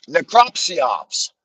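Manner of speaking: very slow NECROPSYOPS, stretched out; slow repeat. Shown as a demonstration. Repeating his coined term to the audience, stretched out. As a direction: drag out necropsyops. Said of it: "That's what I called it".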